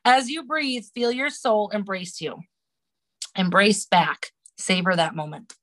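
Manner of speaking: calm, slow meditation read; guided meditation reading. Acted. Reading a meditation to the podcast host. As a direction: guide the listener inward gently.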